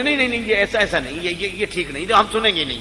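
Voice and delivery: stumbling, repeated mock refusal; acted objection. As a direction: cut in as if refusing to listen. Acts out hasty objection. (हकलाते हुए इनकार का अभिनय)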